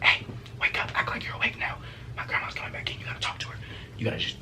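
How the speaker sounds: urgent hushed whisper. Acted. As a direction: whisper a warning through the window. Secretly waking girl at window.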